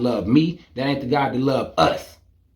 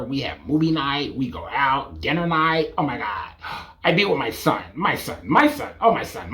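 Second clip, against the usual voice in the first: mock doting mom; 4 dB quieter than usual. Mom voiced doting on son.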